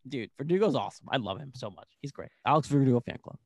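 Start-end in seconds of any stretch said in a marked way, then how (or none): none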